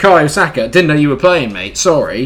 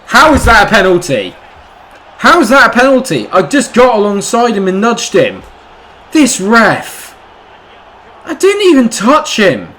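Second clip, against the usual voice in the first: much higher, louder outraged yelling; furious protest; 10 semitones higher, 7 dB louder than usual. Real, not acted. Gamer raging at the referee, high furious yell. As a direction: rage at the referee's call.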